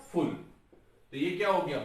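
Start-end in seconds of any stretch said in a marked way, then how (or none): 0.1-0.3 'फुल' alone as the last syllable; detached 'फुल' after a pause; syllable split. Shown as a demonstration. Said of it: "एक चला गया". ('फुल' को अलग से बोलें)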